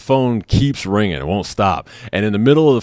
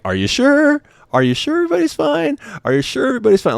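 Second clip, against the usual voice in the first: very high, pestering imitated woman; insistent lady operator; faster than usual. Operator repeatedly checking on the newlyweds, imitated insistent lady. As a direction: keep pressing in a mock high voice. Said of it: "She keeps on asking".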